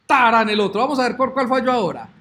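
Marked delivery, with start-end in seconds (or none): 0.0-0.5 tarán fanfare. Real, not acted. Code test runs, fanfare.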